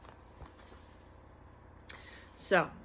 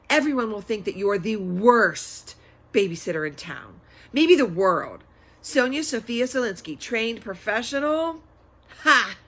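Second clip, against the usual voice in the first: warning tone; 6 dB louder than usual. Acted. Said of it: "a warning tone in her voice".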